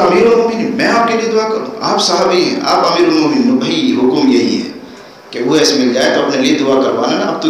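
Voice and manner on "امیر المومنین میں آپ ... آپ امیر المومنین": higher, astonished humility; can I pray for you, amazed; humble surprised protest. Retold or imitated. Companion humbly protests to the caliph.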